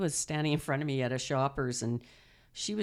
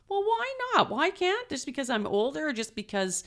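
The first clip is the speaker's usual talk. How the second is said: defiant retort; 9 semitones higher than usual. Retold or imitated. Retelling her defiant reply to critics.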